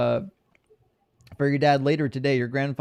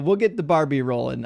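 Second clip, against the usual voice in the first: unsure go at sounding Australian; attempted Australian accent. Streamer improvising for a viewer, attempted Australian accent. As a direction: try out a stock Aussie phrase. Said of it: "is that Australian?".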